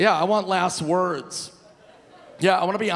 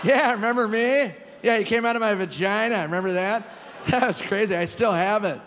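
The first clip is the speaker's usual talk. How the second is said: mock mom; 5 semitones higher than usual. Mom in Norm voice jokes.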